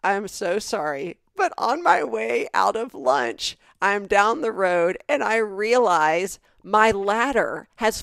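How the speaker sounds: slow, hammed-up apologetic workman; sorry contractor. Contractor phoning to explain the lost ladder, slow mock-apologetic voice. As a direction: drag out the excuse like the sorry repairman. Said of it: "He goes".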